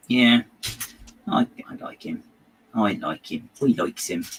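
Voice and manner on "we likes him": "We likes him" in a light West Country lilt; West Country accent. Shown as a demonstration. Showing how locals say it in the West Country, lightly done. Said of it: "That's how they say it in the West Country".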